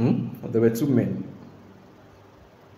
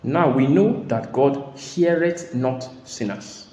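scripture reading; much slower than usual. Shown as a demonstration.

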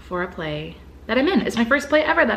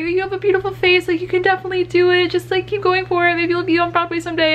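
higher, gushing take on the actress; quoting the star; 9 semitones higher than usual. Retold or imitated. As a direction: retell a compliment in a much higher voice. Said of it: "And she's like".

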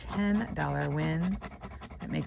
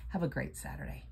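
whisper; 5 dB quieter than usual. Real, not acted. Soft sign-off.

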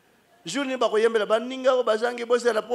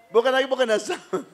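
repeated through a laugh; 4 semitones higher, faster than usual. Retold or imitated. Preacher mocking a widow's wail, laughing. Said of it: "repeated with laughter".

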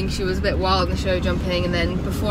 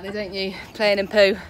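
ordinary talk

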